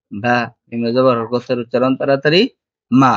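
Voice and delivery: measured, repetitive sing-song letter drill; recitation drill. Shown as a demonstration. Teacher models letters for learners to memorise, rhythmic drill recitation. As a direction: recite each line in the same rhythmic pattern, pausing between letters.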